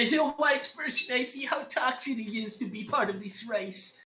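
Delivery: high-pitched put-on accent voice. Streamer fooling his friends in voice chat, high put-on accent. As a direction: pitch it way up in a mock accent, like someone else entirely. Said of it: "was that an attempt at a Jersey accent".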